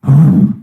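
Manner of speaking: blown-out "uf"; loud exhale of relief; acted sigh of relief. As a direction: puff out the held tension. Relief after inspector passes.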